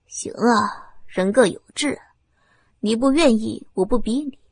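low, icy menace; coldly threatening villain; cold threat. Acted. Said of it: "冰冷冷的面孔".

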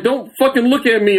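high laughing don't-look; mock embarrassed snap. Telling the waitress not to look, laughing. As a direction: hide your face, half laughing. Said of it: "And I'm like".

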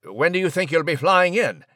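a hint of a fussy English gentleman; polite, flustered British chap on the phone; posh British mouse. Nigel on phone with sister.

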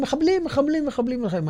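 repeated cry pitched high, easing down; retold alarm. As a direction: imitate a passer-by's urgent repeated warning. Quoting alarmed passer-by's repeated warning.

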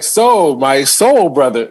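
mock-chummy, drawn-out soul brother greeting; condescending imitation. Comic imitates a man talking down to his level, mock condescending. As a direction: stretch it out like someone trying too hard to relate. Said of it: "Yeah, that's condescending".

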